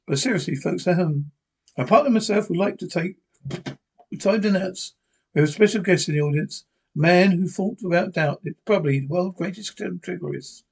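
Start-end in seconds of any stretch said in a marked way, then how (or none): 1.8-10.6 brisk puppet announcer voice; dummy voice. Acted. Dummy announces special guest.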